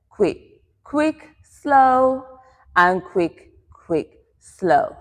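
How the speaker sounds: two short beats, then a drawn-out slow; quick-quick-slow count. Shown as a demonstration. Dance teacher demonstrates the step rhythm, counting on the beat. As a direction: call the dance rhythm in time. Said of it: "in the rhythm of quick, quick, slow".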